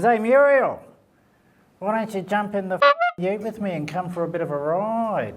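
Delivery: cheeky country bloke calling out; Dave calling out. Acted. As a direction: hail her cheekily from a passing car.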